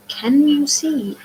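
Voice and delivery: high, loud and slow disbelief; alarmed question. A narrator's reading. Boy asking the blind driver if she sees, alarmed and loud. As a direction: stretch it out in alarm. Alarmed passenger in swerving cab.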